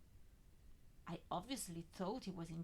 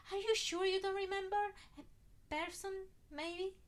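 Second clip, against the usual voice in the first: agitated; 12 semitones higher, 7 dB louder than usual. Acted. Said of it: "hesitantly, under my voice".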